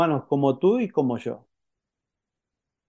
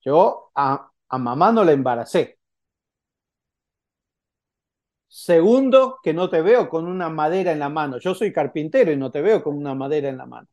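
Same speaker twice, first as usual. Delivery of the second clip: Joseph's voice. Retold or imitated. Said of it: "Para José escuchar".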